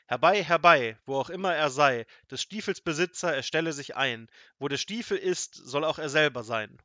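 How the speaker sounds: loud, high-pitched incantation; forceful wizard's conjuring call; thundering voice. A narrator's reading. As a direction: boom out the summoning spell. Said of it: "rief er mit Donnerstimme".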